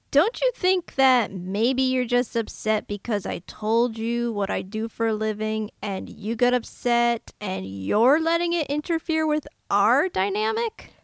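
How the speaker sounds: earnest film-scene line delivery; dramatic reading. Acted. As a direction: read it like a movie patient. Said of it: "Do you want to do a dramatic reading?".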